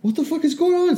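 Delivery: high, baffled exclamation; mock bewildered outburst; retold shock. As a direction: act out your own confusion. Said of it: "And I was like".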